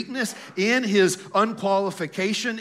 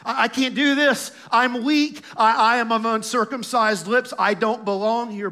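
lightly acted protest, pitched higher; Moses; 4 semitones higher than usual. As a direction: plead inadequacy in quick, mildly raised objections. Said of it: "are you seeing the parallels with Moses".

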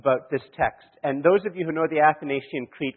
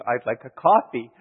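"I'd like a coffee" said slowly, a bit louder, each word spaced; slow, deliberate repeat; 4 dB louder than usual. Retold or imitated. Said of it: "I'll just say the exact same thing again".

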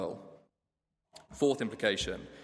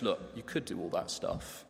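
leaning in, softer, confidential; conspiratorial; 4 semitones lower, 7 dB quieter than usual. Acted. Shady advisor leaning in to a client, softly conspiratorial. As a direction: hush it like sharing a secret deal. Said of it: "he leans in conspiratorially and goes".

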